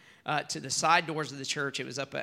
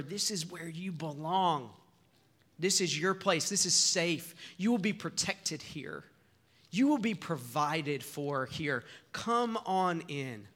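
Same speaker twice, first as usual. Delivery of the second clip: welcoming; 2 semitones higher than usual. Retold or imitated. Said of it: "they say to her".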